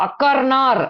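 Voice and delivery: அக்கர்னார் with each R firmly sounded; emphasised silent R. Shown as a demonstration. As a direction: press on the normally silent R in அக்கர்னார். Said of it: "அப்படி அழுத்தமா pronounce பண்ணேன்".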